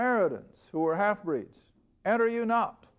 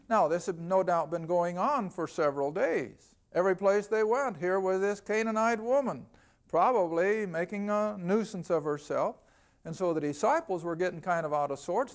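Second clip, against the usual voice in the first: ordinary delivery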